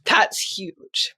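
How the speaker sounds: softly moved, holding back emotion; getting emotional. Real, not acted. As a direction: let the feeling well up softly. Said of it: "if I'm gonna get emotional".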